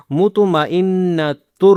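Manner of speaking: مطمئنۃ with the final letter read as ہ; stop with a ha sound. Shown as a demonstration. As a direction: pause on مطمئنۃ and end with ہ, not ت. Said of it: "آخر میں ہا کی آواز نکالیں گے".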